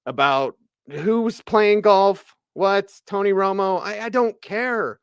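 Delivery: fed up and venting at the fake controversy; pissed-off rant. Real, not acted. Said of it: "as I'm ranting today".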